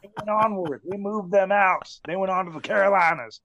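high, fast joking brag; playful mock boasting. Real, not acted. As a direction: hype it up like a promo. Joking about banishing bad fans.

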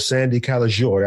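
name rolled with an Italian accent, "Sandy Calagiore" sung out the Italian way. Shown as a demonstration. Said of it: "I said it with an Italian accent".

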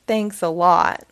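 low, slow sarcastic thanks. Acted. Wilford thanks the farmer dryly, sarcastic. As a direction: say it dryly, annoyed.

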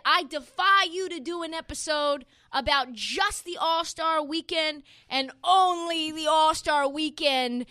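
lightly put-on voice of a taunting hater; mock haters. Host mimics haters daring the podcast, mock challenge. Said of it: "That was the haters in my comments".

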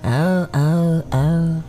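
put-on voice of amazed onlookers; imitating nosy people. Host warns ladies what people will say, mimicking them. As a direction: mimic people gushing, then oohing. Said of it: "will be having people say".

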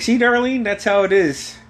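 imitated triumphant dad. Dad proving his point to mom, mock triumphant. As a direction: show mom how it's done, lightly acted.

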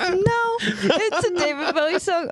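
laughing through the words; crying laughing. Real, not acted. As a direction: talk while laughing hard. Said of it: "I'm crying laughing".

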